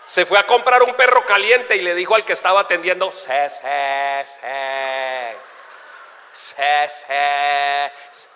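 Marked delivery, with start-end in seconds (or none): 3.1-8.3 low stammer, stuck on the first syllable; stutterer. Acted. Stutterer ordering a hot dog, stuck and stammering. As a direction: stretch each repeated syllable as if blocked. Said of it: "que son tartamudos".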